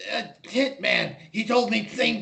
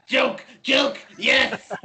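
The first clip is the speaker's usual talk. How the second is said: laughing take-back; 5 semitones higher, 3 dB louder, much slower than usual. Real, not acted. Player laughs, takes back joke.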